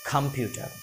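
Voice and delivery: कंप्यूटर with a puffed kh, khampyutar; aspirated k. Shown as a demonstration. Teacher drilling the aspirated kh in कंप्यूटर. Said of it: "का को थोड़ा सा खा बोलेंगे".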